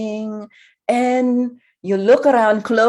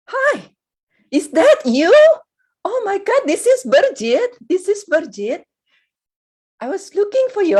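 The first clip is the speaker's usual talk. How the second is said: excited relief; 5 semitones higher than usual. Acted. Friend finds the lost listener.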